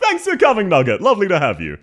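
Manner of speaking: sudden greeting. Real, not acted. Breaks off to greet viewer.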